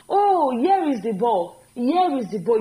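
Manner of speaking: slow, careful model sentence; slow teacher demo; slow demo line. Shown as a demonstration. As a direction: spell it out slowly, like showing a class. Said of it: "You are correct".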